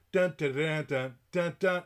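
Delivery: rhythmic mock door-pounding; imitated knocking. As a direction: voice the insistent knocks, punchy. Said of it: "And she knocked".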